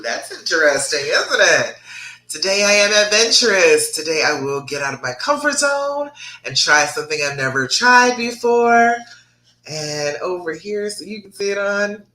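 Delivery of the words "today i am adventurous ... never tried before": affirmation with passion. Shown as a demonstration. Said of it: "say it with passion".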